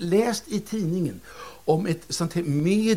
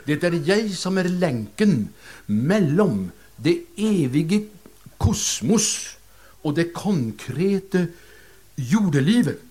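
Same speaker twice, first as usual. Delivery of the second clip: slow, solemn Norwegian medium voice; mock-mystical Norwegian accent; 4 dB louder, slower than usual. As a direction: intone it like a grand Norwegian psychic. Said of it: "Talar ju norska".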